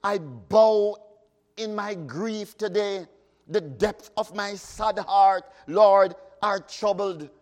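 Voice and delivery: solemn recited hymn verse; hymn recitation. Acted. Preacher reciting a hymn to the congregation, solemn. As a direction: intone the hymn words with feeling.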